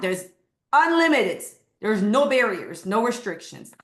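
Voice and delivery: high, loud burst on unlimited; excited. Real, not acted. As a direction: cheer it out, thrilled. Excited listing of shops.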